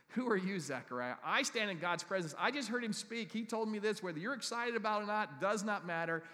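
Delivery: loud, high rebuke from Gabriel; forceful angel. Acted. Gabriel rebuking doubting Zechariah, loud and forceful. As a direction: bold messenger proclaiming over a doubter.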